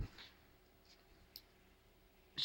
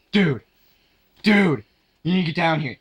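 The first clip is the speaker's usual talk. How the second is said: urgent friend; 6 dB louder than usual. Retold or imitated. Friend urgently calling him over.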